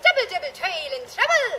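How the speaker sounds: put-on hammy Irish accent, laughing; Irish accent, played for laughs. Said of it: "That's an Irish accent".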